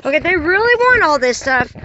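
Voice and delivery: mock-agreeing, dry sarcastic tone; lightly sarcastic aside; sarcasm. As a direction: pretend to agree while mocking. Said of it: "That was called sarcasm".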